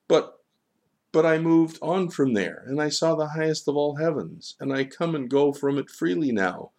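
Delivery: high, loud, self-justifying gull; earnest protest of a proud gull; Johann the gull, insistent. Acted.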